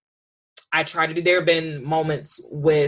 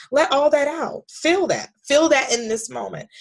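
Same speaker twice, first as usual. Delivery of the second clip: comforting son; 10 semitones higher, 4 dB louder than usual. Retold or imitated. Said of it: "I comforted him".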